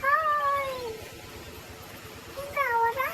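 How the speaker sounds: high, drawn-out pursuing call; mock chase shouting. Pursuer calling to fleeing runner in game, mock shout. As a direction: call after a runaway in play.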